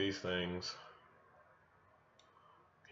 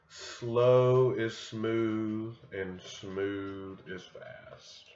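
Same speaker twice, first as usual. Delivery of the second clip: very slow, fading to a whisper; much slower than usual. Acted. Drawn-out mantra fading away.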